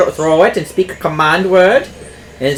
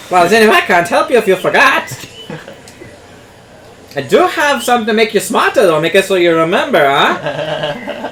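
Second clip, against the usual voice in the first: higher put-on merchant voice; shopkeeper NPC; 5 semitones higher than usual. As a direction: greet the customer as a chatty shopkeeper. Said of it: "my favorite N P C".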